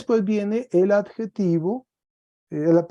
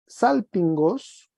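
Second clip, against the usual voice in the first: salpingos said slowly; slow dictation; 2 semitones higher, much slower than usual. Shown as a demonstration. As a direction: drag out salpingos for students. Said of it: "queda salpingos". (salpingos, muy despacio)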